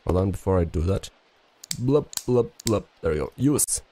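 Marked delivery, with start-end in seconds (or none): 1.8-2.9 mouthed blup noises. Pretend. Imitates noise while placing items.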